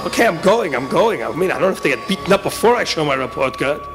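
hurried sulky compliance; harried muttered protest; reluctant grumbling. Acted. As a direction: give in while complaining. Boy gives in, grumbling.

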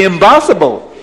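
put-on accented "impossible" with B for P; loud accent turning impossible into "imbossible"; Abdallah's accent. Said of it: "Or you have to say".

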